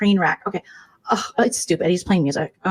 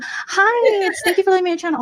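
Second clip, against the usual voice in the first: higher, sugary hello; fake sweet greeting; 11 semitones higher than usual. Two-faced streamer fake-greeting a rival, sugary. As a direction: greet her falsely sweet.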